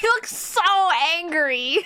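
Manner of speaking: high, giggly amusement; laughing. Real, not acted. Streamer laughing at how mad the character looks, amused. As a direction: crack up while saying it.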